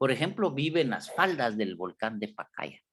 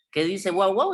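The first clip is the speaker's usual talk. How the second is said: barking imitation; 7 semitones higher, 5 dB louder than usual. Shown as a demonstration. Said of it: "Está tratando de imitar el sonido".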